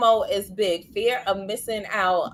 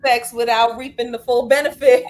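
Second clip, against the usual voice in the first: laughing; 5 semitones higher, 5 dB louder than usual. Retold or imitated. Quoting the doctor while laughing.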